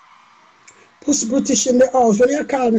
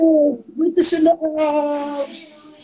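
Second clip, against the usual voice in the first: long-drawn, higher chant; celebratory call-out; 4 semitones higher, slower than usual. Real, not acted. Celebrating British approval with a friend, drawn-out call. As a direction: call it out, stretching the words.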